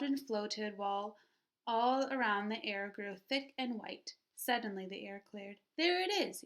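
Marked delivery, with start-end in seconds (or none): 5.8-6.4 high excited yap; yapped. A narrator's reading. Stanley spotting the fence, high excited yap. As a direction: yap it out with delight. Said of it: "yapped Stanley".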